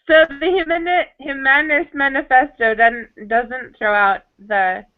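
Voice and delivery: choppy audio breaking up; clipped phone line. Real, not acted. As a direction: voice cutting in and out. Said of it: "You're breaking up pretty good".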